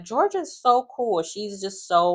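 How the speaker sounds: high-pitched mock gushing; gushing imitation. Ariana praising Georgia in confessional, high and gushing.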